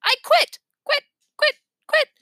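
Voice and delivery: high, frantic yelling. A narrator's reading. Jimmy yelling at the squawking parrot. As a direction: keep yelling, losing patience.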